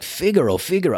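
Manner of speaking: high-pitched mock opera call; lightly hammed-up opera cry; mock operatic tirade. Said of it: "starts his parade of fuck yous again".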